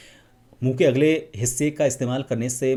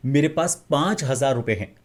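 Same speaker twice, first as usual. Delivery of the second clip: expressive; 2 semitones higher than usual. Shown as a demonstration. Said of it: "तीसरी में ये सारी चीज़ें थी".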